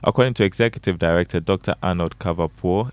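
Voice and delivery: brisk radio news anchor; crisp bulletin, a little quick; news read. Acted.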